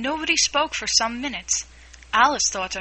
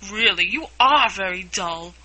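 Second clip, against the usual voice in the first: irritated. A narrator's reading. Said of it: "said the Mock Turtle angrily".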